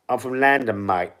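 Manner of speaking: put-on London accent, "London" said as "Landan"; mocked London accent. Streamer echoing a viewer mocking his accent, exaggerated London accent. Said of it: "take the piss out of me accent".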